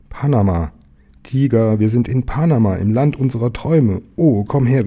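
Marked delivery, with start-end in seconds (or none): 1.2-4.9 higher-pitched excited discovery; thrilled, dream-come-true delivery; overjoyed. Acted. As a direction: burst out with joy to a friend. Bear rejoices at reaching Panama.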